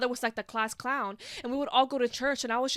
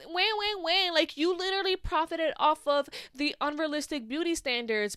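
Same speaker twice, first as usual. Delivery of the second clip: mock commenter; 5 semitones higher than usual. Mocking online commenters.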